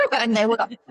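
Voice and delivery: laughing through the words; breaking into laughter while telling it. Real, not acted. Laughing while telling the interviewer about the sisters.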